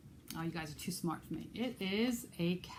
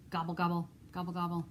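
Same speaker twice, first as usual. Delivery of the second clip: turkey gobble. Pretend. Librarian imitates turkey.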